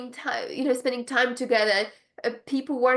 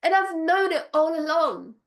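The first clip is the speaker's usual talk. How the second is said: squeaky, much higher knowing voice; giddy high-pitched told-you-so; knowing squeal; 6 semitones higher than usual. Retold or imitated. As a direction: play it like you always knew, squealing high. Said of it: "I'm like".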